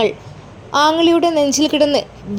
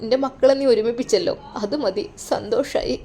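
put-on quietly overjoyed old father; tearful happy old father; 5 dB quieter than usual. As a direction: speak like a frail father near tears of joy. Elderly father moved, happy.

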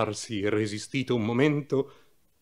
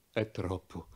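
sobbing; 5 semitones lower, 12 dB quieter than usual. Acted. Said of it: "disse singhiozzando l'innominato".

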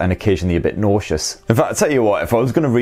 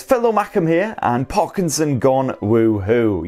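high, then slow, reading voice; comment voice; 5 semitones higher, slower than usual. Acted. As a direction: read it in a lightly put-on fan voice.

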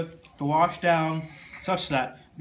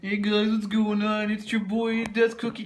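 YouTuber intro voice; 7 semitones higher than usual. Pretend. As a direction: greet the viewers like a channel host. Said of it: "Do, do an intro".

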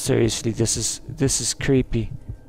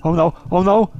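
frightened cry; 4 semitones higher, 3 dB louder than usual. Real, not acted. Chased by the slasher.

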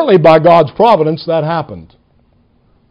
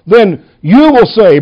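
YOU punched and drawn out; stress on YOU; 2 semitones higher than usual. Shown as a demonstration. Preacher reading Paul's verses aloud, stress on YOU. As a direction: lean hard on the word "you". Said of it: "I'm going to emphasize the word you".

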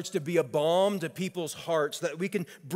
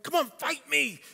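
much higher mocking dare; a hammed-up brawler's taunt; taunting provocation; 9 semitones higher than usual. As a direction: goad them into a fight.

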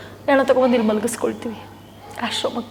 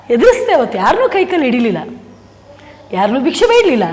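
louder, proud and firm; defiant declaration; 2 semitones higher, 5 dB louder than usual. Real, not acted. Telling the host he faced it alone, loud and defiant. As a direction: declare that you never begged anyone. Proudly insists he begged no one.

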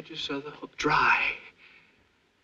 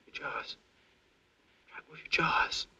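whispering; 3 semitones higher than usual. Acted. Whispered self-instruction.

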